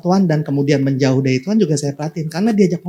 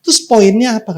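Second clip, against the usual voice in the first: louder and higher, Terus poinnya apa? pressed hard; God's challenge; 6 semitones higher, 5 dB louder than usual. Acted. God confronting Jacob, loud demanding question. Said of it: "kata Tuhan".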